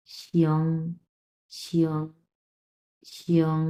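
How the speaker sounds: শিয়ং said lightly as one gliding "shyong"; slight, light articulation. Shown as a demonstration. Teacher drills শিয়ং for learners, light isolated pronunciation. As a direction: let the "yo" in শিয়ং slip by lightly. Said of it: "খুবই slightly উচ্চারণ করতে হবে".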